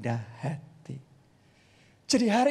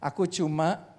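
humble; 4 semitones lower, slower than usual. Retold or imitated. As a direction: say it like a lowly servant. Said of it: "dia ngomongnya begini".

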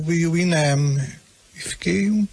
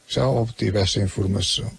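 deadpan calm; 6 semitones lower than usual. Retold or imitated. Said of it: "respondeu muito calmamente".

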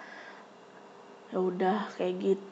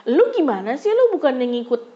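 irritated scolding; 3 semitones higher, 3 dB louder than usual. Retold or imitated. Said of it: "gue jadi emosi dong".

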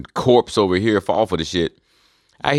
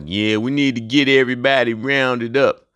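lightly imitated TV-character voice; mock Rick Grimes; 3 semitones higher than usual. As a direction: do an actor's put-on American English. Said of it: "dude that plays Rick Grimes".

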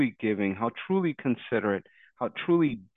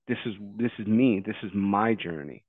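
softer, lower, settling gently at the end; calm self-declaration; 3 semitones lower, 4 dB quieter than usual. Acted. Friend models non-demanding words to a partner, calm. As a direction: own it quietly, without demanding.

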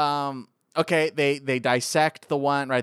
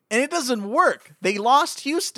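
much higher and louder, slowing down; exasperated disbelief; 13 semitones higher, 6 dB louder than usual. Real, not acted. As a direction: sell how unbelievable it is. Exasperated retelling of nuke failure.

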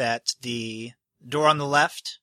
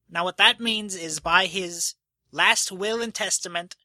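a slightly higher, fussy host addressing the crowd; nervous host announcing; 5 semitones higher than usual. Acted. Host announcing the will to the gathered crowd, fussy and a bit high. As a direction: play him as a flustered official reading a will.

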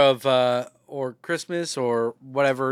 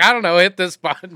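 stepdad voice; 3 semitones higher, 6 dB louder than usual. Retold or imitated. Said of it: "my stepdad's voice being like".

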